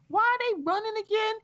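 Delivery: high, loud exasperated question; exasperated why. Retold or imitated. Stephanie reacting to the episode, high and exasperated. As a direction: throw up your hands at it.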